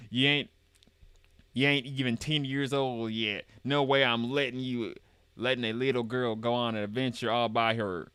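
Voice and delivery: Southern grandpa forbidding; Southern accent. Acted. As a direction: refuse firmly in folksy Southern. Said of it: "that's how a Southerner would said it".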